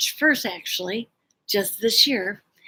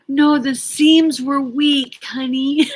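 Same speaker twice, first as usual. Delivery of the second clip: louder, slow, higher husband imitation; retold sincerity; 5 semitones higher, 6 dB louder, slower than usual. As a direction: reassure her with drawn-out earnestness. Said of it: "he was so sincere".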